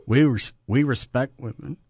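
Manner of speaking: trying not to laugh; failing straight face. Real, not acted. Co-host claims respect for women, failing straight face. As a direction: barely hold back the laughter while claiming it. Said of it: "can't even say that with a straight face".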